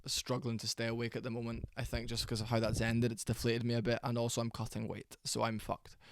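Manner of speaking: soft, drained, struggling to stay awake; deflated and worn out, voice dropped; low energy. Real, not acted. Streamer apologising to viewers for struggling to stay awake, low energy. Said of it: "sorry for being such low energy".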